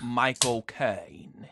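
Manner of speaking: very slow, drawn-out Cockney name; bad Cockney film-star impression, stretched out; terrible Michael Caine. Friend showing his one impression, terrible Cockney star voice. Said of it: "doing terrible Michael Caine impressions".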